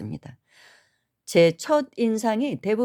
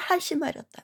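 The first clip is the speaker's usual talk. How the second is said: stern falling command; 10 semitones higher, 3 dB quieter than usual. Retold or imitated. Monk finishing his rebuke, firm falling command. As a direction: drop it down firmly to close. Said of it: "하면서".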